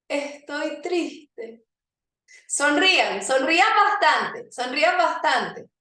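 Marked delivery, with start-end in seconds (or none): 0.1-1.6 slow sad line. Shown as a demonstration. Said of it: "van a decir".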